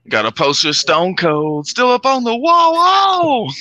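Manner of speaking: hamming up a redneck boast; mock redneck rapper. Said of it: "trying to be like a redneck".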